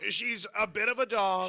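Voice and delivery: Donald Trump. Acted. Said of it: "At least you let me do the Trump impression".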